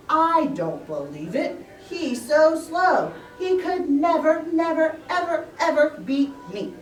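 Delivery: a cocky rabbit sure of winning; boastful hare. Acted. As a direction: scoff at the idea he could lose.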